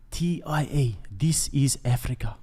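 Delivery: put-on light South African accent as in Blood Diamond; lightly done Blood Diamond South African accent; Leonardo DiCaprio. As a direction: quote the movie in a mild South African accent. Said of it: "I was doing Leonardo DiCaprio".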